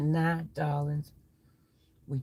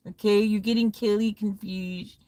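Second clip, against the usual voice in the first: squabbling friends voices; 4 semitones higher than usual. Acted. Skit of squabbling friends over eggs.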